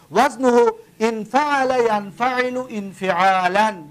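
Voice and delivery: slow, deliberate reading of the Arabic paradigm; slow recitation. Shown as a demonstration. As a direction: spell out each form slowly for the class. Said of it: "دقت بتید". (آهسته و شمرده خواندن)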